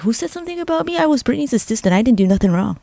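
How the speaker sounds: high mocking whiny voice; mock Vicky T. Creator mocking Vicky T's defensive reply, whiny.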